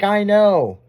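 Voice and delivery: high, loud mock exasperation; exasperated retort. Retold retort to nagging GPS.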